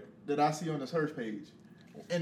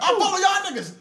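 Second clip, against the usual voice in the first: laughing; 11 dB louder than usual. Real, not acted. Laughing comeback.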